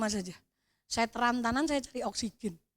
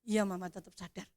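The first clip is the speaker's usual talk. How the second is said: halting; 4 semitones lower, 5 dB quieter than usual. Retold or imitated. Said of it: "dengan terbata-bata".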